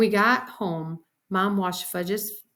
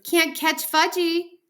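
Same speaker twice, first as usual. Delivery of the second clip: put-on high, loud toddler teasing; gleeful kid holler; hollered taunt; 10 semitones higher, 6 dB louder, slower than usual. A narrator's reading. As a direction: stretch it out as a little boy's taunt. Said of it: "he hollered".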